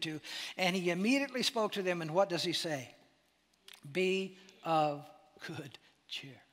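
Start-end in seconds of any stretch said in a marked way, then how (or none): 3.9-6.4 gentle whisper. Acted. Jesus' words, ending in whisper.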